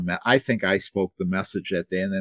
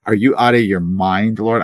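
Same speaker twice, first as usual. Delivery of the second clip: arguing with God; 6 dB louder than usual. Retold or imitated. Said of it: "Ananias argues".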